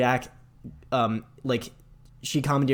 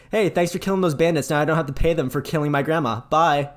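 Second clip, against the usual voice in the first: high, loud cheerful taunt; gloating villain; 4 semitones higher, 5 dB louder than usual. Retold or imitated. Handsome Jack taunting the player after the betrayal, high and loud. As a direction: sneer the thanks, then a bright goodbye. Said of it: "And he's like".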